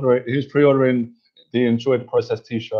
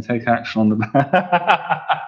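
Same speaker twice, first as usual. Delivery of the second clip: laughing; 2 semitones higher, much slower than usual. Real, not acted. Reading a joke t-shirt, laughing.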